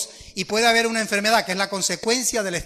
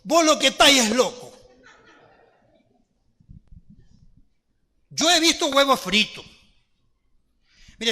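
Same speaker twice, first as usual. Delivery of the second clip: a hint of a Zulia accent, scolding her son; lightly voiced Zulian mom, indignant; Zulian mother; 3 semitones higher than usual. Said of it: "la madre era zuliana y le dijo".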